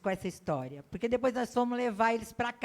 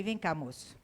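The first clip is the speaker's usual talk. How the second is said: softly calling him closer; a quiet, confiding "come here"; low-key hushed request to the clerk; hushed aside; 6 semitones lower, 6 dB quieter than usual. Retold or imitated. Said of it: "Aí cochichei no ouvido dele".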